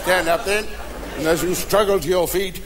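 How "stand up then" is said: lightly voiced punch-drunk sergeant major; sergeant major's tic. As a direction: imitate a sergeant's automatic verbal tic, rising at the end. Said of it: "came a verbal tick".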